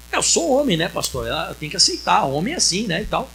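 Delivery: low, soft, shrugging man's excuse; a hint of a cocky husband, mumbled; smug husband excuse. Unfaithful man excusing himself.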